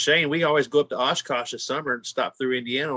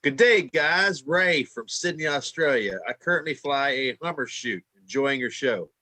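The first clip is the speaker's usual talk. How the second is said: put-on Australian accent; slower than usual. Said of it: "Say it again".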